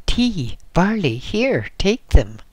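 a burst of eager shouting, take them; loud eager offering. A narrator's reading. The trader thrusts tea and barley at the hermit, loud and high.

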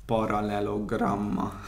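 "paralelogramma" said slowly, every syllable sounded out; careful pronunciation. Shown as a demonstration. Showing how to pronounce the hardest word, "paralelogramma" slow and careful. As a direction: spell out "paralelogramma" by ear, slow and deliberate. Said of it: "Úgy kell kiejteni".

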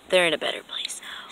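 whispered creepy taunt; sinister whisper. Acted. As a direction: hush it, quietly gloating. Villain taunts captive.

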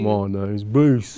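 very slow, drawn-out mock British introduction; British accent. Introducing himself to the camera in a slow mock British accent. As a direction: stretch it in a put-on British accent. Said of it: "Do a British accent for the rest of the video".

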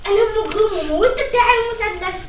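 loud dramatic confession; loud reveal. Real, not acted. Teammate confessing she is the murderer, loud. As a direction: announce the twist loudly.

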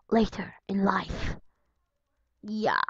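slow, soft unvoiced whisper; whispered aside. Real, not acted. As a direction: repeat it under your breath.

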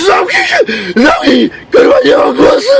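put-on hoarse drunk yelling, cracking high; screaming hungover wreck who lost his voice. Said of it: "El Tigre wczoraj pochlał". (skacowany wrzask)

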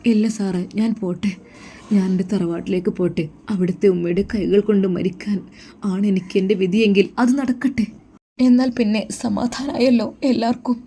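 Muhsina's voice. Acted.

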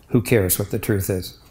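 soft, scornful dismissal; sneering. Retold or imitated. Priest voicing Pilate waving truth away, sneering softly. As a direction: brush truth off with quiet contempt. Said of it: "whether he meant in a sneering way".

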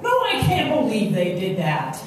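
answering mock indignation at normal pitch; mimicked outrage. Listener mirroring a venting friend, mock indignant. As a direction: echo the outrage, slightly tempered. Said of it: "just kind of mimic their behavior".

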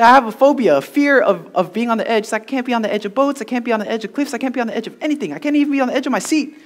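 high-pitched imitation of a worried cousin; mock panicked pleading. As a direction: plead the excuse in hammed-up distress. Panicking cousin explains his phobia.

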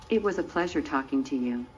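low-pitched American accent. Shown as a demonstration. Robot signing off to its interviewer, still in an American accent. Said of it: "you didn't go back to being English".

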